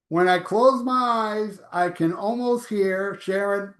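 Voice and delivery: slow, lightly put-on voice of David Ellison; a hint of David Ellison, unhurried; David Ellison impression. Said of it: "I'm gonna do my impression of somebody".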